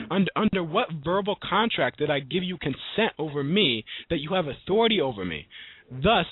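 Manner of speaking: mildly indignant, emphatic classroom speech; retold defiant challenge. Student challenges teacher over asking to leave class, retold defiantly. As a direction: challenge authority with formal, stressed words. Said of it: "I talk like this".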